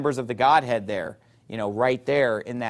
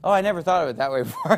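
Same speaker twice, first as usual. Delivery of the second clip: mock surprise; faster than usual. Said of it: "that's what they always say".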